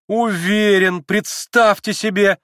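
put-on eager young woman pressing her point; young Lise. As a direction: play the agitated young girl Lise. Lise indignant, laughing.

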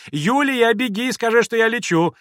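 high, loud call to the maid; excited, high-pitched calling. A narrator's reading. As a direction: shout an urgent order across the house. Mother calls out to maid.

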